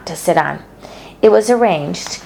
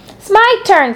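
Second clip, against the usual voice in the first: demanding; 14 semitones higher, 4 dB louder than usual. A narrator's reading. Fern demanding her turn.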